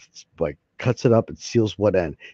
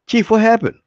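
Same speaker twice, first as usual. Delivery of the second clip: much higher, bright cartoon doctor voice; 13 semitones higher, 6 dB louder than usual. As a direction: play the cheery doctor, pitched up high. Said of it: "I'll even use my acting voice".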